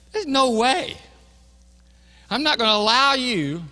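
high, loud, emphatic protest; indignant refusal. Acted. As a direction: refuse the Lord outright, acting out Peter's shock. Peter refusing Jesus, acted.

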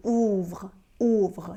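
OUVRE modelled as one syllable, 'oovr'; pronunciation demo. Shown as a demonstration. Teacher showing four forms share one sound, pronunciation demo. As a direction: say OUVRE carefully as 'oovr', then repeat it. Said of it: "สี่ตัวเนี้ยออกเสียงเหมือนกัน คือ".

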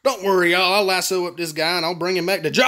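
put-on playful country lawman accent. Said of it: "I don't know why I sound like this".

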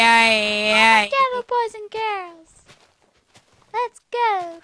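high, slow, loud hype chant; hammed-up stage shout. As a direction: belt it like a stage MC. Shouting performance catchphrase.

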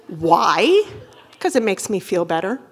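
usual speaking voice

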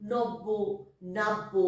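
নব্য said as "nobbo" and নাব্য as "nabbo", with the b doubled; careful নব্য and নাব্য with a held double b; clear pronunciation demo. Shown as a demonstration. Teacher showing pupils how medial jofola sounds. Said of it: "ওইভাবে উচ্চারণ করব".

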